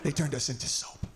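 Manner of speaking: low, slow, heavy mock voice; slow low mock of a sorrowful friend; grave friend. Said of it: "And she's like".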